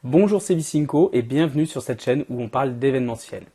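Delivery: cold-worn, hoarse speaking voice. Real, not acted. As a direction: voice giving out from a cold. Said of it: "j'ai la voix éclatée".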